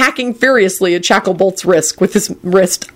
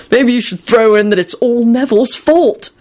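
cheerful; 5 semitones higher than usual. A narrator's reading. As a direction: suggest it with playful cheer. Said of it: "George remarked cheerfully".

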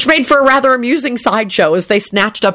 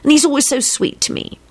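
higher-pitched, adoring gush; acted lovesick sighing; sighing fondness; 7 semitones higher than usual. A narrator's reading. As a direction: gush helplessly over them. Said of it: "Elizabeth sighed".

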